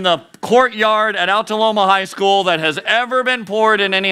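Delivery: a hint of Trump announcing; Trump impression. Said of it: "I can't do a Trump impression".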